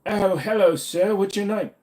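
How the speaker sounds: high-pitched, badly faked Asian accent; attempted Asian accent. Streamer attempts a greeting, badly faked Asian accent. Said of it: "I can't do an Asian accent".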